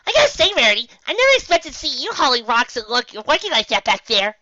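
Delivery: high, loud bubbly voice; Pinkie cheerful. Acted. Pinkie reassuring Galahad, high and loud. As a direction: bounce it out brightly.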